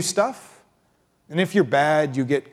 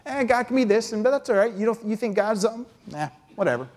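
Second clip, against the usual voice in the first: careless shrug; 5 semitones higher, faster than usual. Retold or imitated. Preacher mimics careless believer.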